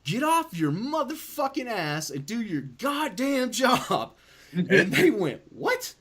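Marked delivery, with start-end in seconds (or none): 0.0-4.1 retold scream. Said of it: "I just started screaming". 5.5-6.0 surprised what. Retold or imitated. Nurses react to outburst.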